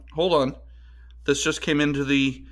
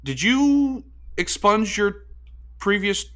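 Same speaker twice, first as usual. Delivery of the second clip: alarmed; 7 semitones higher than usual. Acted. Cohost grills host about deleting old tweets, high alarmed questioning. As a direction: press him, suddenly worried.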